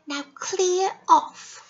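slow, curt brush-off; lightly voiced rude little girl; rude dismissal. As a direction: send him packing, slowly. Red Riding Hood dismissing wolf.

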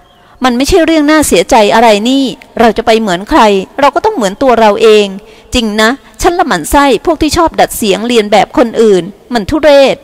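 lightly voiced frank dancer. Dancer encourages, scorns imitators.

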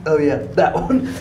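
slow, laughing reply; laughing off fear. Real, not acted. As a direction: chuckle through the nerves. Laughing at scary doll.

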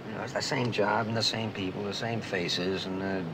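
weary list of daily sameness; bored. Acted. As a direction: recite the dull routine, fed up. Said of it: "bored, I guess".

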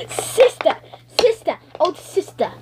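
high calling out. Pretend. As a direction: call across the room. Toy calls out to sister.

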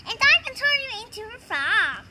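quick, lively echo of a rival's boast; fast, mildly competitive comeback; one-upping retort. Acted. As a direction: rattle it back as a playful counter-boast. Rival echoes the boast back.

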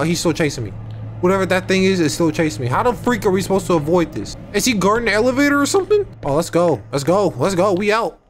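ordinary talk

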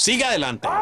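urgent exhortation. Real, not acted. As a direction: urge the congregation on. Preacher urging the congregation on.

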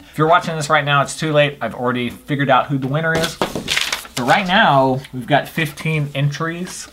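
speaking through a retainer; wearing a retainer. Real, not acted. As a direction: retainer slurring the words. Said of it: "I've got my retainer in".

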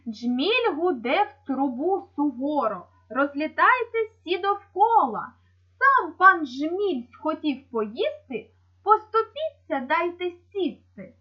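measured, drawn-out poem reading; children's verse reading. Acted. Teacher reads the bumblebee verse to pupils, poem reading. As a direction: read the rhyme slowly and distinctly for children.

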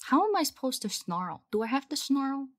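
ordinary delivery

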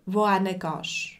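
slow, careful Swiss German "wohin gehst"; Swiss German demo. Shown as a demonstration. Teacher showing learners Swiss German, slow and clear. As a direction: spell out "wohin gehst" slowly, Swiss style. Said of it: "wohin ist".

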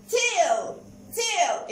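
"Tail" with the A said as its letter name; long A sound. Shown as a demonstration. Teacher modelling phonics to children, long A in "Tail". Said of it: "ال A لما جه وراها I بقت A".

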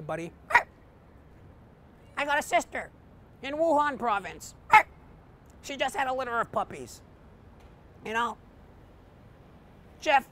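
dog asks his owner for a favor; talking dog. Acted. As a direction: plead like a loyal old pup. Dog Patches continues.

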